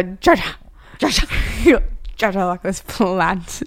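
laughing mock call of her daughter's name; imitating excited mom. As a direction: tease her mother's giddy calling about a plant. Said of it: "when you get really excited, you go".

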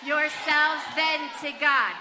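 loud, slow recitation; emphatic group reading. Acted. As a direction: lead the verse with big emphasis. Leads group reading with motions.

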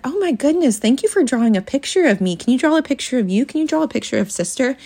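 put-on thrilled parent encouraging a kid; high delighted mom voice. Shown as a demonstration. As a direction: mom to daughter about her drawing, high and delighted. Mom praising child's drawing.

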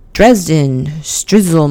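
attempted German accent on the name. Shown as a demonstration. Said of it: "I am horrible at my German accent".

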